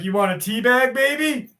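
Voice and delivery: rising high teasing come-on; hammed-up seductive ask; mock flirty line. Joking to chat about flirting with the hag, mock seductive. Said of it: "I'd be like".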